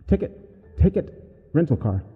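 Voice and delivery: high, eerie creature babble; yammering entity. A narrator's reading. Creature babbling outside the cabin door, eerie yammering. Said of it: "the thing just kept yammering".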